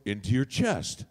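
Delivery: ordinary talk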